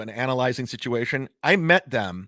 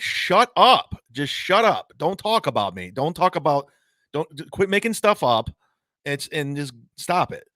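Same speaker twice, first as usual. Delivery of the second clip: angry retort. Retold or imitated. Telling a critic to stop talking about him, angry. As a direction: snap back at someone spreading lies. Retelling his angry reply.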